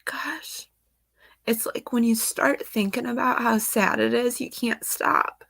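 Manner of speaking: tearful words slipping into a whisper; too upset to voice the words, just breathe them; choked-up whisper. Real, not acted. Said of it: "I am so emotional today".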